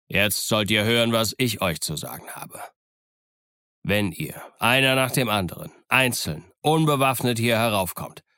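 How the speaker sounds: firm naval captain laying down terms; unyielding captain dismissing a pirate; stern captain. Acted. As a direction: state each condition like a verdict. Captain's stern reply to Silver.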